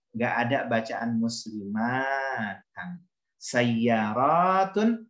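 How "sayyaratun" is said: Sayyaratun slowly stretched, every syllable sa-yya-ra-tun held long; drawn-out model reading. Shown as a demonstration. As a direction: spell out Sayyaratun for the class, very slowly. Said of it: "cuman sayyaratun sama sayyaratin".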